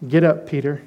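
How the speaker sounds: weighty low command; solemn divine command. Acted. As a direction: say it like a voice from heaven. God's command repeated, solemn.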